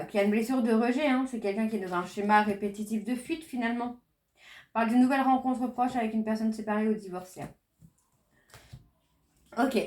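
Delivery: ordinary talk, nothing marked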